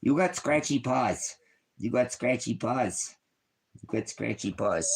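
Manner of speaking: high, slow doting voice for the puppy. Real, not acted. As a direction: coo it to the dog, slow and high. Talking baby talk to his dog.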